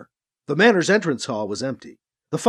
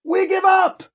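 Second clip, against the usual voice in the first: high shouted surrender; 13 semitones higher, 3 dB louder than usual. A narrator's reading. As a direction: call out surrender across the hall. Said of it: "Alibi shouted".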